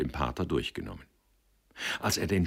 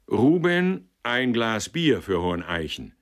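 much higher, louder order across the room; calling the waiter; 6 semitones higher, 6 dB louder than usual. Acted. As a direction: bark out the order, cheerfully. Director calls for beer.

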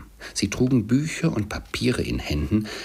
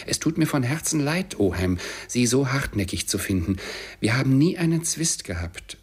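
higher, lively voice of wounded good will; heartfelt nephew; 6 semitones higher than usual. A narrator's reading. Nephew wishes his stubborn uncle well, heartfelt. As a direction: stay cordial but insist, pitch lifted.

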